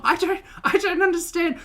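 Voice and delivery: high, laughing through the words; can't stop laughing while you say it; giggling, high-pitched bafflement; laughing disbelief. Real, not acted.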